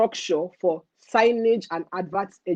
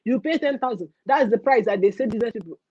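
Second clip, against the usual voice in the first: official's brush-off; 5 semitones higher than usual. Retold or imitated. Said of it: "Be like".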